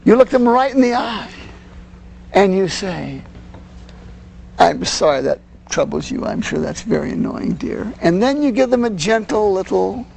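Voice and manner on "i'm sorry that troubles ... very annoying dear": soft, calm and sympathetic, fading quieter; calm empathetic. Shown as a demonstration. Parent looking the child in the eye, softly empathetic. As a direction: gently soothe the child before walking off. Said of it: "you're empathetic".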